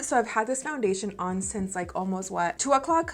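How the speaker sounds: breathless after climbing stairs; out of breath. Real, not acted. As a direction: talk while catching your breath. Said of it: "Sorry if I'm out of breath".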